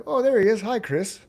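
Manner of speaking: high, loud imitated welcome; excited greeting. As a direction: mimic delighted hosts spotting a newcomer. Acting out musicians greeting him.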